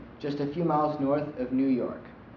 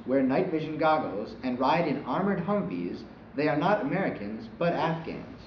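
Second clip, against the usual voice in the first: steady anchor news read. Acted.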